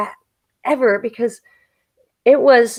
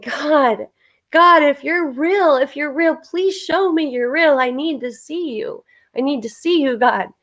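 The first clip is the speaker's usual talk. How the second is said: higher, slow pleading cry to the sky; desperate prayer; 5 semitones higher than usual. Retold or imitated. Dreamer crying out to God under the storm, pleading. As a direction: beg God to show himself, slowly and high.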